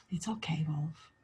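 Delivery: soft whispered comfort to the wolf; gentle whisper. Acted. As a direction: hush him like a scared animal. Red Riding Hood calming the wolf.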